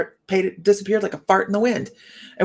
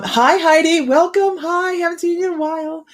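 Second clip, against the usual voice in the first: cheery greeting; 12 semitones higher than usual. Real, not acted. Greeting a viewer in chat.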